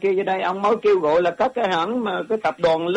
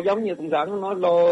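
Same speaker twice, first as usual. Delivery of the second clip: ordinary talk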